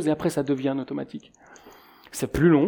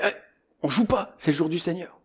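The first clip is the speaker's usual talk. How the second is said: higher-pitched strict aunt scolding; imitated reproach, raised pitch; mock scolding aunt; 3 semitones higher, 4 dB quieter than usual. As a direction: tell off the nephew, lightly acted.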